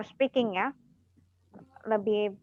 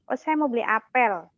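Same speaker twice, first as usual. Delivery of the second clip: put-on Medan accent. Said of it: "try to imitate orang Medan".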